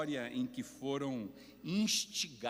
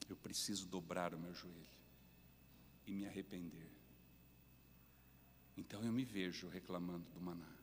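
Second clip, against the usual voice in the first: tag de confissão contrita; 4 semitones lower, 8 dB quieter, faster than usual. Real, not acted. Pregador confessa o próprio pecado.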